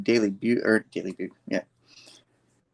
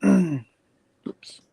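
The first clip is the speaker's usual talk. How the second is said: throat clear, then a breathy whispered oops; 8 semitones higher than usual. Real, not acted. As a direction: mutter it under your breath. Slip while telling story.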